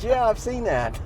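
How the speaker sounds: put-on high, eager young man; excited guy voice. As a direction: quote him high and eager. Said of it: "he goes".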